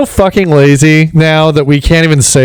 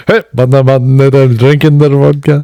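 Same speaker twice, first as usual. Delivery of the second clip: mock Russian-Jamaican voice. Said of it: "they're like".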